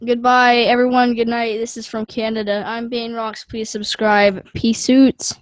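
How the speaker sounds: put-on kid's channel sign-off. Shown as a demonstration. Son signing off his own channel for viewers. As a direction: wrap up like a young youtuber. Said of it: "you wanna say goodbye, bud?".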